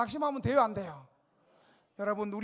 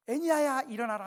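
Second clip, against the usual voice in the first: commanding call; 3 semitones higher, 7 dB louder than usual. Acted. Peter commands the sick man rise.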